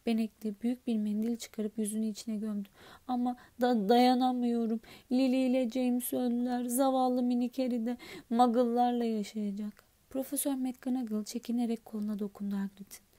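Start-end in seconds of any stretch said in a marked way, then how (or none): 3.1-9.8 louder, booming giant; a big gentle giant answering politely; lightly louder giant voice; Hagrid's voice. Acted. Hagrid weeping over Harry.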